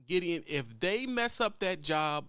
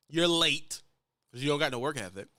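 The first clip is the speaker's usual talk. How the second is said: loud, sharp scolding; 3 semitones lower, 5 dB louder than usual. Acted. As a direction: call them out for being late. Scolding young drivers.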